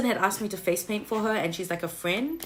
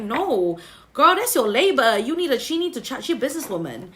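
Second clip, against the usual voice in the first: loud sassy voice of Spirit; louder, sassy scolding; 3 semitones higher, 4 dB louder than usual. Retold or imitated. Spirit voiced telling her off.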